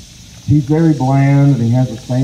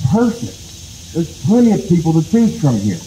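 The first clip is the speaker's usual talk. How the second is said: delighted exclaim; 4 semitones higher than usual. Acted. Rabbit sees crowded council house.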